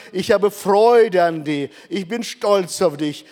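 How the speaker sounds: usual speaking voice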